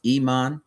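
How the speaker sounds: "Iman" with the I said as long ee; pronounced ee-MAHN. Shown as a demonstration. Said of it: "but it is pronounced".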